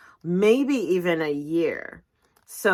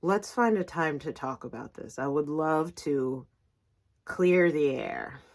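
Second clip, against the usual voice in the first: calm invitation; 3 semitones lower, 4 dB quieter than usual. Shown as a demonstration. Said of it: "That's what you say".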